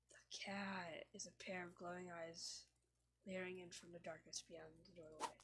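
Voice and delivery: ominous whisper. Acted. Narrator revealing the cat in the dark, ominous whisper. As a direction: breathe it out like a secret dread.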